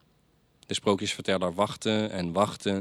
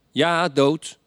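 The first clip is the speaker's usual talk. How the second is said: calling back; 8 semitones higher, 7 dB louder than usual. Acted. Storyteller answers from bed.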